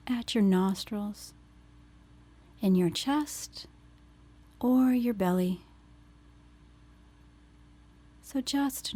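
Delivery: unhurried phrases, leaving space to breathe between them; guided meditation. Acted. Leads grounding meditation after intro.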